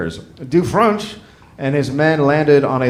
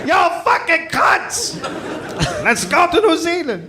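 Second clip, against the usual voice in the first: mock French sailor; 12 semitones higher than usual. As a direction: yell it as a Frenchman sailing off. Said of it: "It sounds so nice!".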